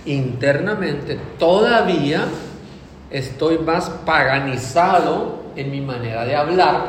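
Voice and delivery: slow, lightly put-on voice making lame excuses. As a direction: justify yourself sheepishly, dragging it out. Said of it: "Puedo decir". (excusa floja, lenta y ligeramente actuada)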